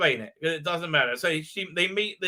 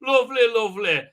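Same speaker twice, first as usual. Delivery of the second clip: high, loud mock swooning voice; mock gushing; 5 semitones higher, 4 dB louder than usual. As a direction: gush over it in a put-on high voice. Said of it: "She says".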